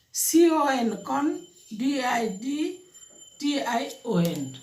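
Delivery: slow spelling, chunk by chunk. Shown as a demonstration. Teacher breaking "condition" into syllables, spelled out slowly. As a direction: spell slowly, pausing after each syllable.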